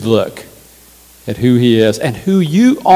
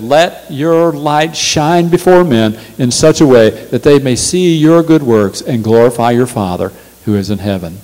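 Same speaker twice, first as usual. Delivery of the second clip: usual speaking voice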